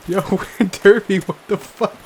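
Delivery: loud, high yell at the dog; exasperated yell. Real, not acted. Player yelling at companion Derby in disbelief. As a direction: bark the name in disbelief.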